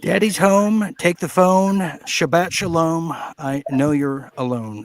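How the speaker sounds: mock her homey catchphrases; mocking imitation of the widow. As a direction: parrot her words with a sneer. Mocks the played widow clip.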